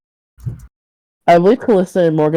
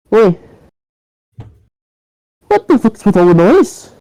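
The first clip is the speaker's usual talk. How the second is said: higher, irritated neighbour's complaint; irritated confrontation; 4 semitones higher, 4 dB louder than usual. Acted. Neighbour complaining at his door about noise, irritated confrontation. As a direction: demand an answer at the door.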